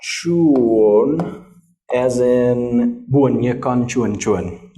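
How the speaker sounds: chuon and buon ye con chuon chuon said with a Vietnamese accent, slowly; Vietnamese words. Shown as a demonstration. Teacher attempting Vietnamese words with a Vietnamese accent. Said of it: "How's my Vietnamese?".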